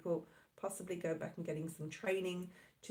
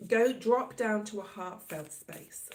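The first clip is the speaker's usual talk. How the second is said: whispered; 5 dB louder than usual. Real, not acted. Tarot reader guiding listener inward.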